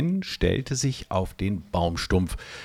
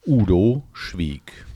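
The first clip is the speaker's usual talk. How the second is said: breathy whisper, slowed down; whispered narration; 5 dB louder, slower than usual. A narrator's reading. Narrator hushes as Udo falls silent, a slow whisper. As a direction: hush the line, barely voicing it.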